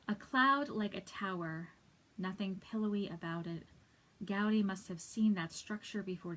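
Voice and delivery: poem recitation. Acted. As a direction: lean into each line's opening, pause at the break. Reads a poem aloud.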